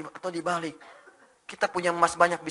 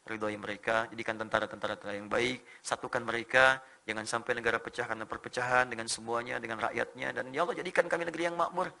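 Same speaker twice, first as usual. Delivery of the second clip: low, soft murmured prayer, lifting at the end; softly recited supplication; 6 semitones lower, 8 dB quieter than usual. Retold or imitated. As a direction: quietly plead with God for the nation. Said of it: "Dan saya berdoa".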